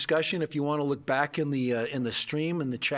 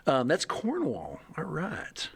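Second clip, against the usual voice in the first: whisper; slower than usual. Real, not acted. Aside while reading chat.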